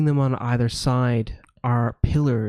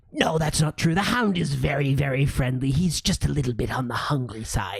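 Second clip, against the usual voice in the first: gargoyle; 2 semitones higher than usual. Acted. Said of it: "The other gargoyle says".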